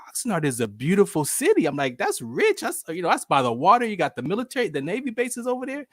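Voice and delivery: retold excited sales pitch; amazed enthusiasm. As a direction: gush in mock astonishment. Acts own amazement at Oxnard.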